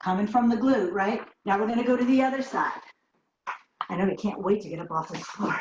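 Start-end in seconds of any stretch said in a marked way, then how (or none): 3.9-5.5 breathless after the exercise; out of breath. Real, not acted. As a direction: speak between heavy breaths. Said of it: "I'm a little out of breath".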